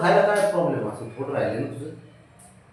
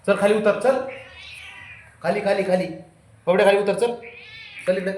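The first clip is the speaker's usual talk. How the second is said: high, loud coaxing command; raised pleading orders to the pet; urging pets down; 6 semitones higher, 3 dB louder, faster than usual. Real, not acted. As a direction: get the cat off, now. Ordering cats down off something.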